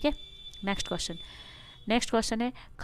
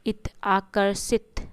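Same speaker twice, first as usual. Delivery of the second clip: slow demo; much slower than usual. Shown as a demonstration. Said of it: "last में इत की उच्चारण आ रही है".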